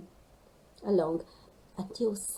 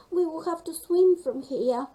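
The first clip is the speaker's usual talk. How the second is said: determined Rosie; 7 semitones higher, 5 dB louder than usual. Acted. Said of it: "said Rosie".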